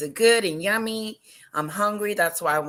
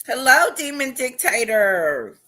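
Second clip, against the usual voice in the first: excited yell; 6 semitones higher, 4 dB louder than usual. Real, not acted. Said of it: "I know I'm yelling".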